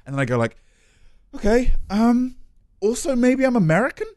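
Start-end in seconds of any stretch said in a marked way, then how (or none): 1.3-4.1 put-on American accent. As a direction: ease into a cheesy American voice. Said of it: "my American voice".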